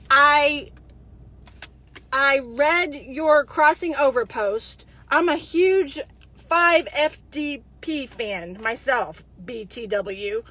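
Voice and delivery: slow, lightly hammed-up reading of his message; mocking a creepy flirt. Reading his Instagram message to viewers, slow mock flirt. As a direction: drag out his cheesy lines in mock. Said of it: "read this exactly how he said it".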